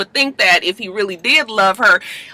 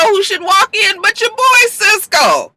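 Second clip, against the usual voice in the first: mock surprise; 13 semitones higher than usual. Real, not acted. Dramatic reveal of Cisco.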